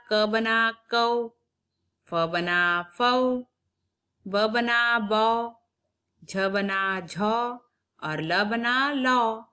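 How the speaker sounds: each syllable stretched out slowly; slow syllable building. Shown as a demonstration. Teacher slowly sounds out syllables for young pupils. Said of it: "उसका उच्चारण देखते हैं".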